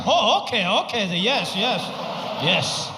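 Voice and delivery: falling, fading okays; fake understanding. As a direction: nod along without getting it. Dad pretending to understand.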